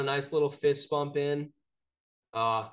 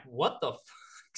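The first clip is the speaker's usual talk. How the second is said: drawn-out, retold astonishment; stunned disbelief; much slower than usual. Telling co-host about spotting Coach O, stunned. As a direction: stretch it out in mock disbelief.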